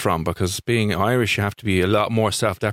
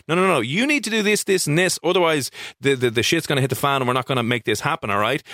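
assertive; 3 semitones higher than usual. Retold or imitated. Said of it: "a bit more assertiveness".

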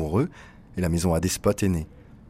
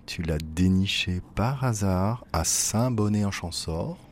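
ordinary delivery

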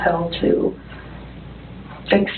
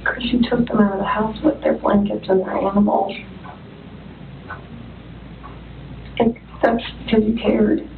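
reassuring; 5 dB quieter than usual. Real, not acted. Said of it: "interrogator soft reassurance".

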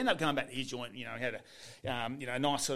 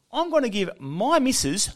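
slow, higher and louder quoted declaration; grand announcement; 7 semitones higher, 9 dB louder, slower than usual. Retold or imitated. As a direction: announce a big idea, word by word. Acting out friend's announced drunken idea.

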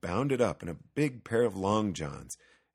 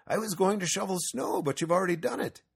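higher-pitched, lively neighbour; Axel; 11 semitones higher, 4 dB louder than usual. A narrator's reading. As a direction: pitch it up, quickening at the end. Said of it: "he said".

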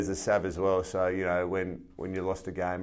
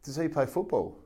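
higher-pitched imitation of her question; retold question in a raised voice; inquiring female barber; 6 semitones higher than usual. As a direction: lightly voice a tentative woman asking. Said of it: "And she goes".

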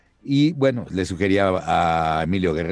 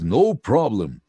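Alf voice; 3 semitones higher, 3 dB louder, slower than usual. Retold or imitated. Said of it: "como en inglés".

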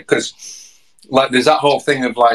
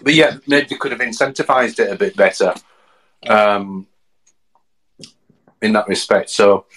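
talking while eating; mouth full. Real, not acted. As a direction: speak through a mouthful of food. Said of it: "sorry, I'm just eating my tea".

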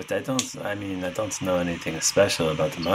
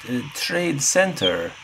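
pitched-up in-character voice; high character voice; 9 semitones higher than usual. Acted. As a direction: lift the voice for the character. Speaks in character as Harpy.

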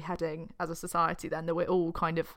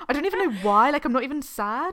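higher, louder self-parody; exaggerated put-on crying excuse; mock tearful denial; 6 semitones higher, 6 dB louder than usual. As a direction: ham up protesting that you aren't sad. Hams up her own catchphrase.

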